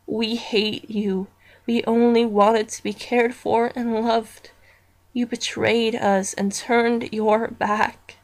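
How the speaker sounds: slow, eerie and accusing; a lightly voiced creepy webkin, slow and accusing; menacing doll voice. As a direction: drag each word out like a haunted toy. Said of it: "It goes like this".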